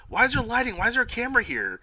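high, loud puzzled demand; high mock voice. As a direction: squeak it in confusion. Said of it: "Britt was all like".

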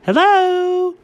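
a poor attempt at a British accent; bad British accent. Shown as a demonstration. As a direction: try the British accent and miss. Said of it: "That wasn't even close".

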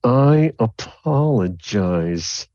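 slow, drawn-out grudging apology; slow grudging sorry. Acted. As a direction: drag the apology out reluctantly. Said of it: "The other one's like".

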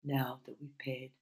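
measured poetry recital with pauses between lines; deliberate, phrase-by-phrase verse reading; poem reading. Acted. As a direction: read your own poem aloud, lingering on phrases. Reads own poems aloud.

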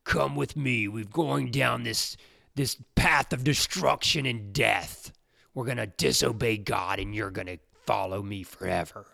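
a hint of a sinister tempter luring you down; mock devil beckoning at the door; evil Satan voice. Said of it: "you know, in this evil voice".

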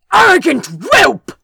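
loud, high enraged yell; furious yell. A narrator's reading. Dagon loses his temper at Crow, furious yell. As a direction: lose all composure on it. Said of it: "Lord Dagon yelled suddenly, losing all composure".

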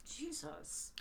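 breathy, stunned whisper; whispered shock. Real, not acted. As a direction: gasp it out softly. Shocked reaction to story.

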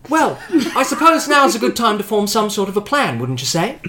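lighter spark. Acted. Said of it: "with a somewhat lighter spark in her voice".

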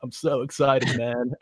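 laid-back stoner drawl; dreamy, spaced-out stoner. Real, not acted. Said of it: "There's your stoner voice".

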